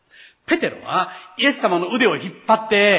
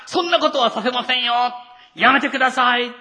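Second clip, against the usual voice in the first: higher, louder, shouted refusal; insistent refusal; 6 semitones higher, 5 dB louder than usual. Retold or imitated. Peter refusing Jesus while others comply, loud and high. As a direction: push the hands away with the voice.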